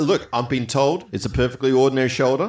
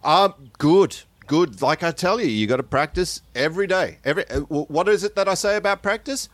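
coach voice; 5 semitones higher than usual. Acted. Coach voice in clip.

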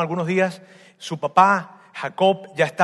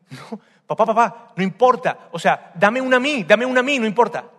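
louder, higher pleading, rising urgency; desperate begging; 4 semitones higher, 5 dB louder than usual. Acted. Esau begs his father for a blessing, desperate plea. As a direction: plead for any blessing at all.

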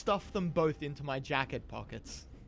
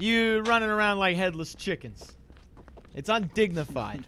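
louder, higher reprimand easing off at the end; indignant scolding; 3 semitones higher, 4 dB louder than usual. Acted. Player's character berates a porter running about, indignant scolding. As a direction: tell off a servant with offended dignity.

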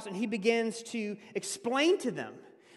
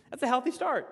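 laughing repeat; 3 semitones higher than usual. Real, not acted. Pastor repeating his encouragement to the listeners with a laugh. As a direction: laugh through it and lift it.

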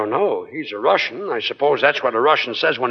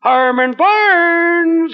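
very slow, even higher and louder full-name call; 13 semitones higher, 5 dB louder, much slower than usual. Acted. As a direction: holler the duck's full name. Calling the duck.

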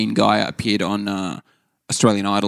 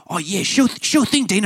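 knowing window cleaner; 11 semitones higher than usual. Retold or imitated. Window cleaner disbelieving him.

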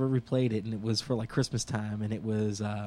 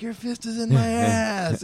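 much higher, slow mock shriek; mock screaming woman; 9 semitones higher, 5 dB louder, slower than usual. Retelling a movie birth scene, high mock scream. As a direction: squeal it like a woman in labor. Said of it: "screaming at him".

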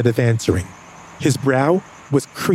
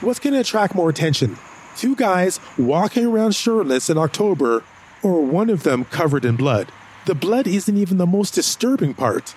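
exasperated reasoning; 4 semitones higher than usual. Acted. Arguing with James.

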